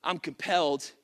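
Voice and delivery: quiet, awed apostle voice; Paul speaking. Acted. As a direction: let Paul murmur it, deeply moved. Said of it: "The Apostle Paul ... says".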